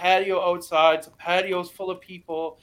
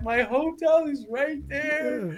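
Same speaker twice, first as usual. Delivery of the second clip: exasperated; 9 semitones higher, slower than usual. Retold or imitated. Pointing at hotel in disbelief.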